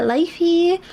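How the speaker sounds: lifey, ending on a drawn-out ee sound; silly lifey. Shown as a demonstration. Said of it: "Pronouncing the E like that".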